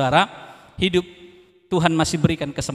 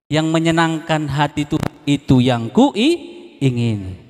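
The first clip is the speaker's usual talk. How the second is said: slow, drawn out kuingini; slow song line; 4 dB louder, slower than usual. Shown as a demonstration. Preacher repeats the lyric to the church, slow and drawn out. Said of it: "Tadi lagunya saya ulang-ulang".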